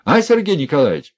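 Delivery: loud, high mimicking shout of her call; jeering loud call across the room; mocking call. A narrator's reading. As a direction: echo her cry in mockery. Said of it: "подхватил и Князев её зов".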